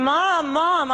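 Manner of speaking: hammed-up cry for help; mock scream. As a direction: imitate a son calling out in a panic. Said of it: "He starts, like, screaming".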